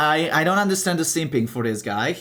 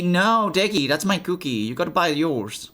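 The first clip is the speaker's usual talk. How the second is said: mock scolding pet; 5 semitones higher than usual. Real, not acted. Scolding pet biting cookie.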